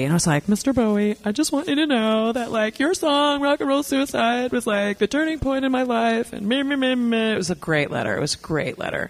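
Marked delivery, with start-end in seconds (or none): 0.5-7.3 hammed-up heartfelt plea, pitch climbing; mock heartfelt. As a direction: read your gushing letter, trailing into meh-meh. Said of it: "I wrote this heartfelt letter".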